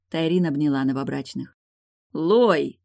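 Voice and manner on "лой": louder call down the corridor. Acted. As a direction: call her from another room. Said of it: "позвал Дамьен сестру".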